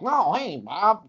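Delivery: mock white-person voice, high and singsong; exaggerated high, swooping caricature of white speech; white-people voice. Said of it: "kind of voice for how white people talked".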